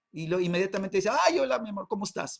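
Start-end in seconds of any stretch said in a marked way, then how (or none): 1.3-2.4 mock sweet wife. Wife answers husband warmly.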